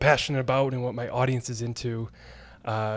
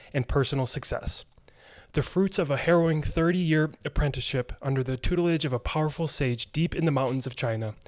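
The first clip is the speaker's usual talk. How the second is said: polished, scripted guest introduction; podcast intro read. Acted. Host reads the show introduction.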